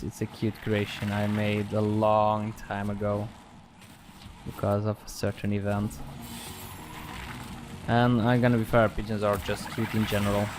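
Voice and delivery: flat, monotone robot-like voice; subdued deadpan robot delivery. Real, not acted. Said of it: "the reason I sound like a robot".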